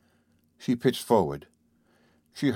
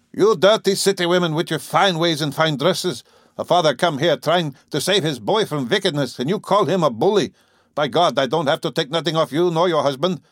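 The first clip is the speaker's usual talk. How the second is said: loud, higher angry sneer; 6 semitones higher, 4 dB louder than usual. A narrator's reading. Farmer sneering at the city woman, loud and angry. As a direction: spit out the scorn for city women. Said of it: "and sneered".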